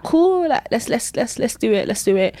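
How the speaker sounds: eager. Retold or imitated. Eager reply to the Holy Spirit.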